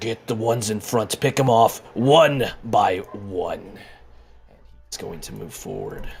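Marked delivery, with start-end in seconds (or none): 0.0-3.6 deep, guttural, throaty half-dragon commander voice. A half dragon steps forward and calls out orders, deep guttural voice. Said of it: "You hear this deep guttural voice saying".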